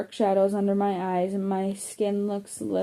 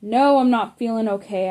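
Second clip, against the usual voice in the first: louder upset outburst; bursting out; 2 semitones higher, 5 dB louder than usual. Acted. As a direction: snap back, fed up and frayed. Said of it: "I burst".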